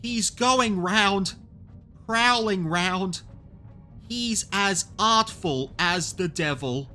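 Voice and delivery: high, drawn-out dread; anxious high-pitched voice; fearful warning. A narrator's reading. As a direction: wail slowly about the stalker. Marvel fearful of hidden pursuer.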